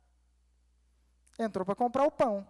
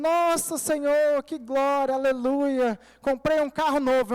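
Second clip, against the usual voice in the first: mock excited praise; 2 semitones higher, 3 dB louder, slower than usual. Preacher retelling his joy over a new car, mock excited. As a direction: gush over the new car, half mocking himself.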